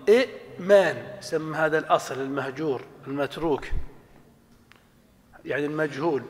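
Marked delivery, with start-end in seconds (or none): 0.1-1.2 إئمان with a clear second hamza, slowly; original form. Shown as a demonstration. Teacher gives students the reconstructed original إئمان. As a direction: spell out إئمان as i'-mān, glottal stop before the m. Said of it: "ما مصدر آمن يؤمن في الأصل".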